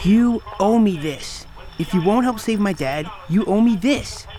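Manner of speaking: insistent demand. Acted. Daughter demands payment of a debt.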